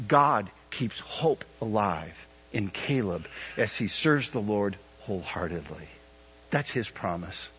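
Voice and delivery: slow, low, deliberate phrasing; slow emphatic. Acted. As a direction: lay each word down slowly. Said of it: "better said this way".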